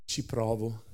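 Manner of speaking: soft, slow and fragile, like a frail waitress; soft, gentle waitress reply; faint timid voice. A narrator's reading. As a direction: barely voice it, timidly. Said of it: "tutta così tenera".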